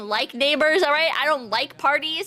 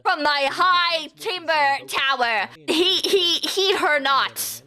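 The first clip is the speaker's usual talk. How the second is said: mock-aristocrat with a giggle at the end; fancy lord voice; 3 semitones higher, slower than usual. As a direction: play a pompous noble, drawn out. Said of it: "study up on how to speak fancy".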